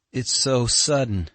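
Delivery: high, slow, taken aback; faltering. A narrator's reading. Katya shaken by the unexpected message, faltering. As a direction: falter as if caught off guard. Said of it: "faltered Katya".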